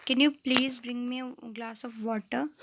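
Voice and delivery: very slow, every word spaced out; slow polite request. Shown as a demonstration. Teacher models a polite request to students, slow and careful. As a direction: spell out the polite request slowly for the class. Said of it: "जैसे हम अब पानी ही मांग रहे हैं".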